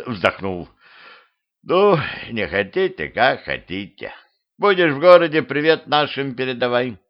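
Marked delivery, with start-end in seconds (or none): 1.6-7.0 lightly voiced skeleton farewell; a hint of resigned skeleton, pitch swooping. Skeleton lets travellers go, lightly voiced resignation.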